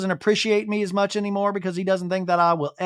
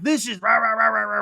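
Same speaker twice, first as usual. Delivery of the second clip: retold husband's yelling, pitched way up; mock yelling; 3 semitones higher than usual. Wife mocking husband's yelling at her, higher. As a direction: parody his ranting as gibberish. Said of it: "yelling at me".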